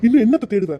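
husband losing his temper over lost temple jewels; exasperated outburst. Acted. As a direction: throw the question out in despair. Husband despairs at loss.

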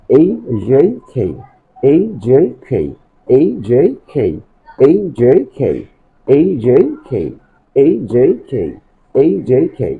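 rhythmic "এইচ জে কে" with gliding vowels; follow-me letter drill. Shown as a demonstration. Teacher leading pupils to follow, "এইচ জে কে" in rhythm. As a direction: chant "এইচ জে কে" in a rising-falling lilt. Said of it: "আমাকে follow করার চেষ্টা করো".

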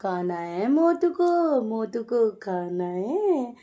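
drawn-out coo at the pet. Real, not acted. Mother baby-talking to pet dog. (कुत्ते से धीमी तुतलाती आवाज़)

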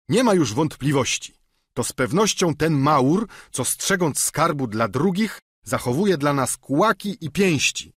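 grumbling certainty; Sancho. Acted. Sancho laments. (lekko zagrany giermek, wyżej)

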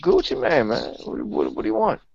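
high, hammed-up rapper voice; mock rapper hyping himself up; rapper impression. Host egged on by friend, high hammed-up rapper voice. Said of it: "go ahead, Kevin. Just egg him on".

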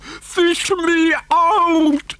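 high, very drawn-out wail; yelling for rescue. A narrator's reading. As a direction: howl each word slowly for help. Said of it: "he yelled".

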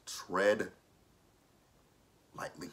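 cautious warning breaking into laughs; laughing warning. Retold or imitated. Vlogger warning Tommy at the strip club, laughing. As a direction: warn him gently through giggles. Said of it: "I was like".

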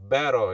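better with an R-like tap for the T; better, American-style; American flapped T. Shown as a demonstration. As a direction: flap the middle of better. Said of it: "이렇게 발음한다는 거".

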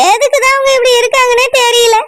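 tearful complaint about her mother; sobbing daughter protesting the match; crying. Acted. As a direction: weep the words out in despair. Daughter weeping over forced marriage.

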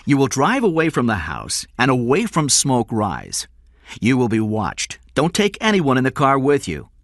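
threatening command. Acted. Kidnapper warning King against being followed, threatening command. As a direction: dictate terms with menace.

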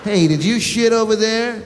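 same scold, now to a big dog. Pretend. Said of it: "Doberman or a Rottweiler".

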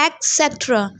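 etcetera as ek-SET-ra; common mispronunciation. Shown as a demonstration. Teacher quoting what most people read, mispronounced. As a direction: say etcetera with k in place of t. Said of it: "Mostly लोग इसको पढ़ते हैं".

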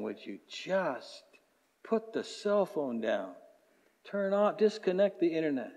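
soft, slow, hushed God voice; gentle voice of God. Retold or imitated. Pastor voicing God, soft and slow. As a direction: coax them softly to be still.

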